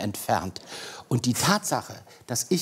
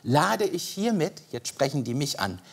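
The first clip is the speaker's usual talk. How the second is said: mock official reading; 5 semitones higher than usual. Shown as a demonstration. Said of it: "Und da steht dann".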